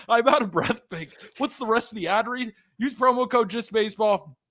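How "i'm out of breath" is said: out of breath. Real, not acted.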